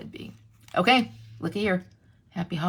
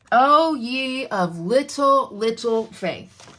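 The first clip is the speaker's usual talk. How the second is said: mock solemn; 6 dB louder, much slower than usual. Repeats with drawn-out emphasis.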